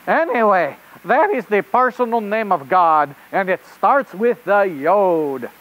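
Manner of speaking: put-on rabbit reporter in a hammy French accent; host a children's show in bad French-accented English; really bad French accent. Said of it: "with a really bad French".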